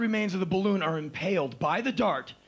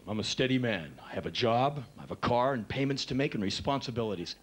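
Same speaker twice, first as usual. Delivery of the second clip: lower, stolid self-satisfied man; steady man; 5 semitones lower than usual. Retold or imitated. Aging man bragging about stability, low stolid voice. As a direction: list it like a proud dull adult. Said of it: "they become more steady".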